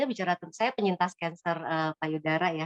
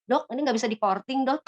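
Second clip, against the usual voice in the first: half-joking appeal, pitched up; pleading question; 5 semitones higher than usual. Retold or imitated. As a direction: bargain with the doctor, voice raised. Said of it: "saya nanya sama dokter".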